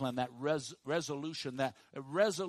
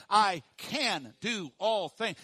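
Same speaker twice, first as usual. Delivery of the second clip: louder, slow, punch each word of I can do all things; loud, slow affirmation; 6 dB louder, much slower than usual. Shown as a demonstration. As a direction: proclaim it with the crowd, slowly. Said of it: "say it with me".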